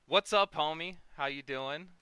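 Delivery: loud, high hype greeting; excited shout. Real, not acted. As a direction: greet your buddy at full volume. Loud greeting to arriving guest.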